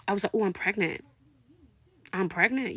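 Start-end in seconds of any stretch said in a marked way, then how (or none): 0.3-1.0 acted "oh" of realisation, falling at the end; dawning realisation. Patient taking in blood test news, dawning realisation. 2.1-2.7 rising, questioning echo of the news; disbelieving question. Retold or imitated. Patient querying her blood test result, disbelieving question.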